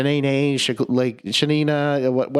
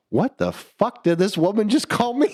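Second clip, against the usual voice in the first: disbelieving squeal, pitched way up; shocked disbelief; 8 semitones higher than usual. Retold or imitated. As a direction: cry out in stunned disbelief at the name. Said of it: "I was like".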